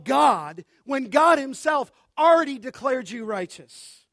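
rousing sermon shout; preaching at full force. Acted. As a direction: drive each phrase home at full voice.

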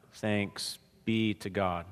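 slow, drawn-out teacherly prompt; kindergarten teacher voice. Shown as a demonstration. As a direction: spell it out slowly like to small children. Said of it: "I know I sound like a kindergarten teacher".

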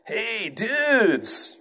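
high-pitched California surfer-dude greeting. Acted. Preacher mimics a surfer greeting his friends, California surfer-dude accent. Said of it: "There's the surfer dude".

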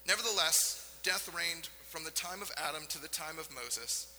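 measured, solemn reading of Paul; scripture reading. Acted. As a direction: read it out like the Bible passage it is. Reads Romans aloud.

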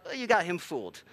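soft, gentle teasing from God; a light, kind nudge as God; gently amused God chiding; gentle little voice of God. Retold or imitated. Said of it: "It was a gentle little".

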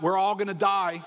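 a preacher acting out the disciples' panic in the storm; panicked cry. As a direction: cry out like frightened men in a sinking boat.

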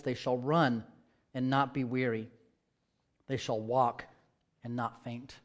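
measured, solemn reading that slows and softens toward the end; scripture reading. Acted. Pastor reads Isaiah to the church, solemn and measured. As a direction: read it out like the morning's scripture to the congregation.

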